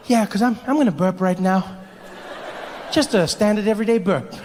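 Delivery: high, falsely casual assurance; voice of the body. Retold or imitated. Body warning comic of a burp, high falsely casual voice. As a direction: play it innocently offhand. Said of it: "my body was like".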